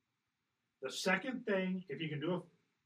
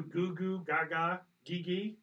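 put-on baby talk; 2 semitones higher, slower than usual. Shown as a demonstration. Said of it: "you baby talk to 'em".

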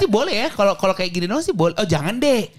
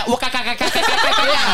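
high, squealing mock fan; 4 semitones higher than usual. Mock fan squealing over her.

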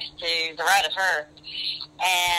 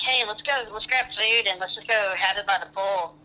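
nice voice; 2 semitones higher than usual. Retold or imitated. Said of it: "so I put it nicely".

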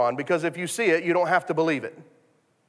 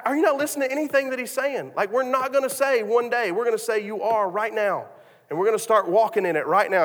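higher, fast, insistent preaching tone; wife preaching back; 5 semitones higher than usual. Retold or imitated. Wife preaching the faith lesson back to her husband, higher. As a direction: preach it right back at him. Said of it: "she just preached it right back to him".

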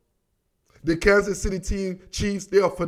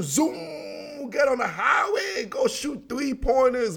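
high, drawn-out "zoom"; animated zooming; 6 semitones higher, 3 dB quieter, slower than usual. Real, not acted. Host picturing the fast Chiefs, animated zooming. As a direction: send it flying upward like a speeding car.

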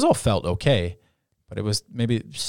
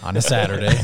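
ordinary delivery

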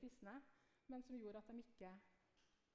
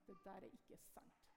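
stern denial; 4 semitones lower, 6 dB quieter than usual. Retold or imitated. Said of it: "stirret hardt på meg og sa".

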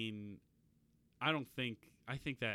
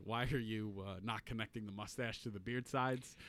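mocking rant; 6 dB louder than usual. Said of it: "he's like".

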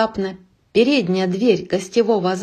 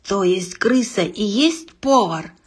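breathless with rage. Acted. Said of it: "задыхаясь от злости".

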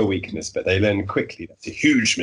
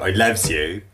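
Bristol accent; slower than usual. Shown as a demonstration. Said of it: "The best way to do a Bristolian accent".

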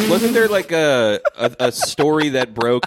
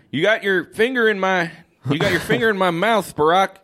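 lightly voiced politician, higher pitched; Joe Biden; 5 semitones higher than usual. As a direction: play a mildly put-on indignant statesman. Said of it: "Joe Biden would, would, would, uh, would say".

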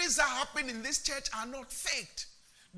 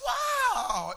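higher amazed exclamation; amazed wow; 13 semitones higher, 6 dB louder than usual. Acted. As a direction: burst out in wonder. Exclaiming breakthrough.

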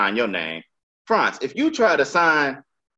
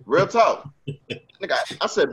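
ordinary talk, nothing marked

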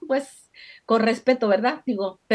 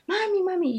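imitated tearful child; 7 semitones higher than usual. Daughter comes in crying to her mother, imitated tearful call. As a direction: lightly imitate a crying little girl calling Mom. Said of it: "entró llorando y me dijo".

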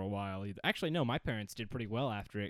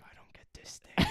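put-on breathy whisper of a sulky child; mock child whispering a complaint; whispered kid. Whiny kid voiced in a story.

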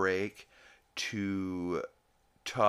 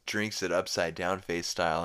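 normal talking voice

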